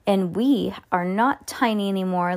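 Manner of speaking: ordinary delivery, nothing marked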